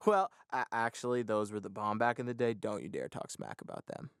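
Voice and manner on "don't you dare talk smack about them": mock threat.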